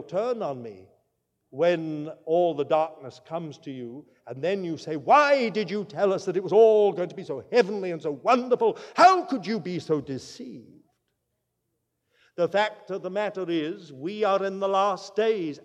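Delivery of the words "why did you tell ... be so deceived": mock accusing complaint. Congregant's imagined accusing outburst.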